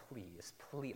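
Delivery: soft, earnest begging; acted, hushed plea; heartfelt pleading. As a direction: plead quietly from the depths of the heart. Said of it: "from the depths of our heart".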